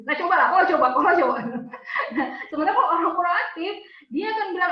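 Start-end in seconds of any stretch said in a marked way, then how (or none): 0.1-1.4 taunting "coba" repeated; mock bickering. Wife imitating herself arguing with husband, taunting. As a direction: needle your husband with it. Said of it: "ngomongnya gitu".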